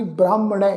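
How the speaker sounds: ਬ੍ਰਾਹਮਣ ਹੈ closing on "-nai"; traditional pronunciation. Shown as a demonstration. Teacher gives the old traditional reading, ਬ੍ਰਾਹਮਣ ਹੈ ending in "ai". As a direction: say ਬ੍ਰਾਹਮਣ ਹੈ with final "ai", not "aa". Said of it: "ਹਾਹੇ ਨੂੰ ਸਿਹਾਰੀ ਵਾਂਗੂ".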